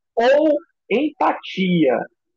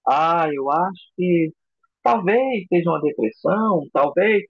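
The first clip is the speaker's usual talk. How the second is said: mock-depressive, slow and drawn-out start; depressing delivery. Shown as a demonstration. Orator showing how a downcast voice kills empathy, depressingly. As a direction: drag it out with a touch of gloom. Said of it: "falar de uma forma deprimente".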